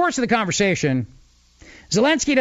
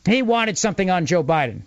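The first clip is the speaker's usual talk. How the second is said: sly mock reveal. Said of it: "you take it and you go".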